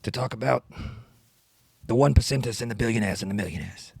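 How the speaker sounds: lightly voiced senator rapping off the cuff; a hint of old-politician impression in a halting rap; Bernie Sanders freestyle. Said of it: "freestyling as Bernie Sanders".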